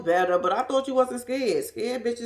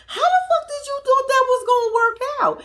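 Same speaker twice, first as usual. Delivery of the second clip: loud exasperated rant; 14 semitones higher, 6 dB louder than usual. Real, not acted. Ranting at Ashley.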